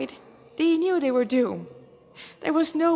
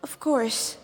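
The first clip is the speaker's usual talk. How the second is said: higher, louder, grandiose and theatrical; flamboyant demon lieutenant; 5 semitones higher, 4 dB louder than usual. Acted. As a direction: show off your rank to the cornered humans.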